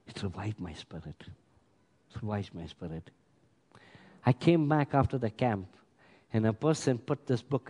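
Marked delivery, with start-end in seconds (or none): 0.1-3.1 very low, soft, heartfelt repetition; hushed. Real, not acted. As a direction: let the voice drop right down in reverence. Moved recollection of being revived.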